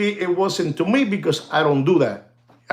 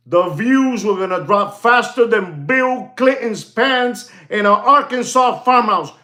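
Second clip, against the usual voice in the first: higher put-on olive oil voice; Morgan Drew impression; 4 semitones higher than usual. Vlogger repeating his joke, in a higher put-on olive oil voice. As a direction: retell the punchline in the borrowed oily voice. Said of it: "Why are you talking like that?".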